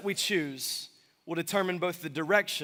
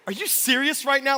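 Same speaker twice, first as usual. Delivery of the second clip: loud and higher, fed up; exasperated shout; 7 semitones higher, 5 dB louder than usual. Retold or imitated. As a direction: blurt it out in disbelief. Exasperated at sarcastic friend.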